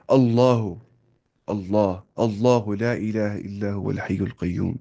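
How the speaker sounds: slow recitation, thick lam in اللہ; heavy lam. Shown as a demonstration. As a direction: recite اللہ لا الہ الا هو with a full heavy L. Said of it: "وہ موٹا پڑھا ہم نے".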